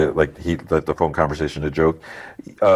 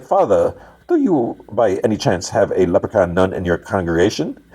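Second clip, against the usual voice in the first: put-on Irish accent. Detective telling a leprechaun joke to the hostage-taker, mock Irish accent. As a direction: imitate a joke-teller doing an Irish accent. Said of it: "like, an Irish accent".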